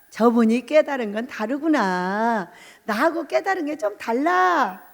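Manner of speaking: slowly modelled phrase for repeating; slow recital. Shown as a demonstration. Preacher leading listeners in what to say, slow recital. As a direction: draw it out for the group to follow. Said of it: "이렇게 말씀을 하셔야 돼요".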